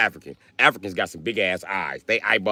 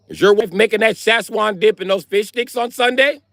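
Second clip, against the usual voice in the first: squeaky, cheery small talk; high friendly cop voice; 4 dB louder than usual. Retold or imitated. Cop inviting himself to dinner, mock high cheery. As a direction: play a chummy cop in a high voice.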